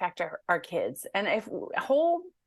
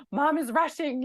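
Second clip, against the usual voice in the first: imitating an anxious child; 7 semitones higher than usual. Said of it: "It makes them feel like".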